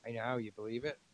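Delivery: talking through a yawn; mid-yawn, words stretched. Real, not acted. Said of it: "Jim, you're yawning".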